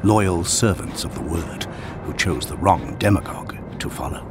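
raspy. Acted. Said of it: "Sed rasps, the smile in his voice".

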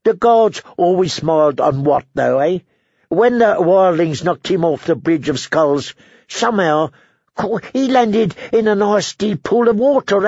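high, dry, mournful drone; deadpan misery, every line a sigh; gloomy Ed voice. Acted. Dolorous Ed tells the brothers about Wat, glumly.

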